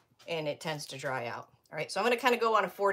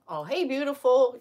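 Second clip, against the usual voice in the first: mock troll flirt; 7 semitones higher, 7 dB louder than usual. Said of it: "you know it's one when".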